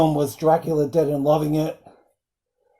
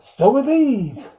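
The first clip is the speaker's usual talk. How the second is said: higher and slow, mock seductive; sultry comeback; 8 semitones higher, slower than usual. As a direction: purr it as a cheeky come-on. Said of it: "she's like".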